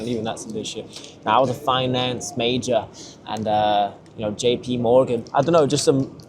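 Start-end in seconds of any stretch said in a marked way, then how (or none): 1.2-5.2 lightly attempted Texan accent; bad Texan accent. Imitating an American finance major, in a poor Texan accent. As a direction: have a clumsy go at a Texan accent. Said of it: "that was a shit accent".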